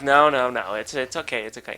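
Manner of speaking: retold calm, hushed reassurance; placating. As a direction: play down the problem for the client, voice dropping away. Reassuring the owner, hiding anger.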